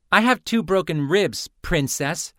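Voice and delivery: mocking snap at her rival; snapping back. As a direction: cut her off with a sharp reply. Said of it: "Cyphera snapped back".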